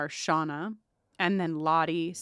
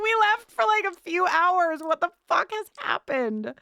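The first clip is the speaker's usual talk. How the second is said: mock high quote; 9 semitones higher than usual. Quoting Nat and Travis.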